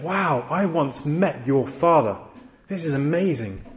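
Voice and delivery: mildly hammed-up amazement; imitated wonder, slightly slowed; awestruck ticket seller. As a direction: act out a starstruck fan, drawing out the wow. Acted awestruck ticket seller meeting son.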